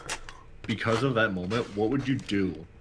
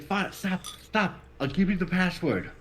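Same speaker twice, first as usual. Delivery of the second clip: mock giving in; 8 semitones higher than usual. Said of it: "he's like".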